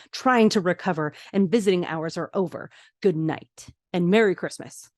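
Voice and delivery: emphatic, mildly indignant lecture; retold firm telling-off. George tells off the family about his patient, firmly. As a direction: lay down the law, lightly acted.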